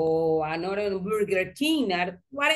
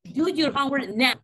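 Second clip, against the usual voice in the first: firm command; 4 semitones higher than usual. Shown as a demonstration. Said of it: "I say, Gabriela".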